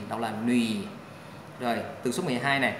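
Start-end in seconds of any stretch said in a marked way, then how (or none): 0.5-0.8 "nùy" pitched low in third tone; low dipping Mandarin tone on "nùy". Shown as a demonstration. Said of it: "Thanh ba là nuy".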